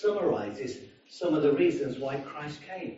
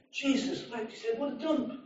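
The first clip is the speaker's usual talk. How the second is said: put-on drunk grumble; 7 semitones higher, 7 dB quieter than usual. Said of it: "he blasphemed again".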